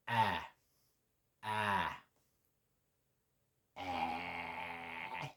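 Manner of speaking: ah between ah and eh; Swedish ä. Shown as a demonstration. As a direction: say ah, nudged toward eh. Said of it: "turn the dial a little bit".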